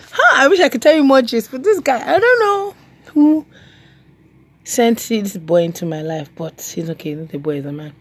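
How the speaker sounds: high, chatty man's voice, fading down; gossiping guy. Retold or imitated. Guys praising the boy in her life, high and chatty. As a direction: gush about the new boy. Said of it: "I've heard guys tell me".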